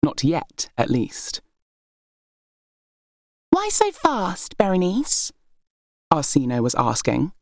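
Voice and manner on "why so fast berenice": higher, slow, sweetly probing; innocent question. Acted. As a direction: ask with mock innocence. Arsinoe asks innocently.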